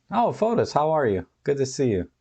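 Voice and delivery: light up as if a friend just walked in; excited greeting. Real, not acted. Greeting a newcomer in chat.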